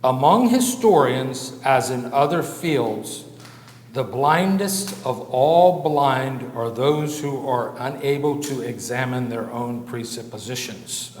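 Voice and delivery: measured, slow reading of a quotation; deliberate quote reading, falling away at the end. Real, not acted. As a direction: read it out slowly, phrase by phrase. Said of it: "I'll read this slowly".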